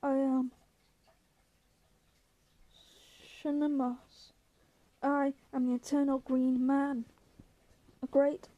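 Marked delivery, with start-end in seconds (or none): 0.0-7.1 grand proclamation with long pauses; measured, swelling monster roar. A narrator's reading. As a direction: announce each name like an ancient giant. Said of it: "roared the monster".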